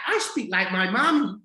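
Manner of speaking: high child imitation, attempted Irish accent; Irish-accented little girl. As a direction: mimic a small girl's Irish accent. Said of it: "like, with an Irish accent".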